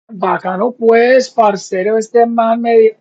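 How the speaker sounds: hammed-up Colombian slang; Colombian Spanish accent. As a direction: play a Colombian guy from Medellín, loud. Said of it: "I always see these Colombian guys".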